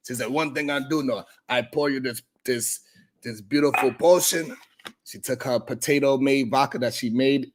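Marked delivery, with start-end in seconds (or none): 0.3-4.6 put-on mild Russian accent. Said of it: "She was telling me all this in Russian".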